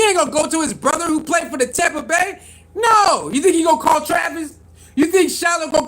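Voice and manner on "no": a sharp, loud, higher no; outraged yell of no; shouted no. Real, not acted. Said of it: "outraged rejection".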